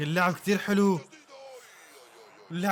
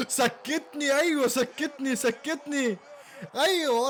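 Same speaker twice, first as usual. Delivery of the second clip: laughing through the words; giddy laugh between the words; chuckling in disbelief; 8 semitones higher, slower than usual. Real, not acted. Laughing after the goal.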